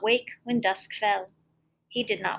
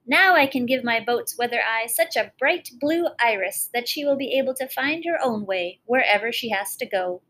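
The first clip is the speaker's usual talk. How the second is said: gleeful; 4 dB louder than usual. Acted. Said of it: "said the old fisherman gleefully".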